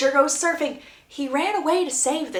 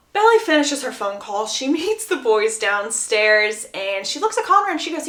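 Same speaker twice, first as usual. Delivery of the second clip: normal talking voice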